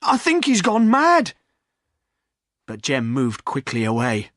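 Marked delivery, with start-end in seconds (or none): 0.0-1.3 higher louder command; sharp loud call; urgent order. A narrator's reading. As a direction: landlord ordering the poacher. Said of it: "said the landlord".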